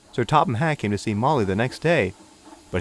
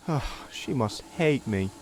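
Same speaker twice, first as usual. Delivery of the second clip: softer, slow, crestfallen sigh; mock despair; 7 dB quieter, slower than usual. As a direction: let it sink gloomily. Neville despairs.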